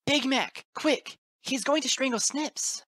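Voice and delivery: very high, loud urgent call; yell. A narrator's reading. Teacher calling toward schoolhouse for help, high panicked yell. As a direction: yell urgently across the yard. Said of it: "then yelled towards the schoolhouse".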